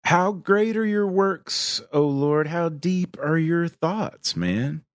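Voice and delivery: lightly voiced high stoner dude; Lebowski voice. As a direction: muse on it like the Dude. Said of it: "the full Lebowski".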